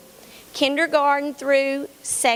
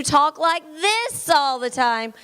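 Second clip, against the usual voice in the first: higher, louder, a touch overbearing; loud talker; 5 semitones higher than usual. Shown as a demonstration. Teacher imitating her loud students for the panel, louder. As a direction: boom it out like the kid who always talks too much.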